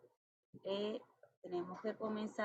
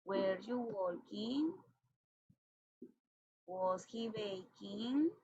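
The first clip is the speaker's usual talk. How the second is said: slow model question; much slower than usual. Shown as a demonstration. Teacher models English questions.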